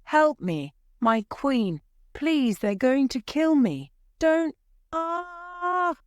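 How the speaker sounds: terrified pleading that breaks off in a scream; panicked scream. Acted. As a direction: beg for your life as they drag you off. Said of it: "he screamed".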